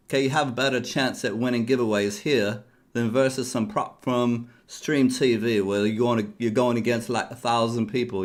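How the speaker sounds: put-on loud, half-joking South London accent; hammed-up South London street voice; mock South London accent. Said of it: "I don't even know what accent I'm doing".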